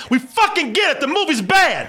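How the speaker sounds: high, laughing put-down; laughing retort. Retold or imitated. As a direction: snap it at him while cracking up. Telling off loud moviegoer.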